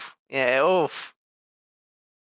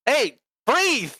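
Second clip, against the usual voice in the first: high, sharp cry of alarm; acted, high-pitched command; alarmed urging; 11 semitones higher, 3 dB louder than usual. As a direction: urge a friend in a mild panic. Game lawyer alarmed at sidekick.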